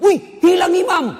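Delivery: very high, very loud mock yell; imitated startled shout. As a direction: act out a full-voiced cry of alarm. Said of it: "Langsung teriak".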